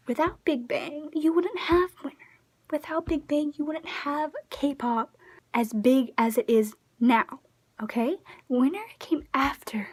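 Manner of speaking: school her like a know-it-all; condescending lecture. Retold or imitated. Lecturing the commenter as honey.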